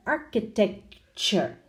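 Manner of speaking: "Architecture" slowly, with a gap before "cher"; slow "Architec... cher", ending split off; exaggerated CH. Shown as a demonstration. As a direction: draw out "Architecture" to show the ch. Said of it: "Exaggerating slightly so you can hear".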